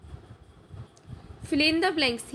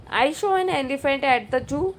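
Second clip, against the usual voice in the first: slow quiz option read; much slower than usual. Shown as a demonstration. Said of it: "Which sentence is correct?".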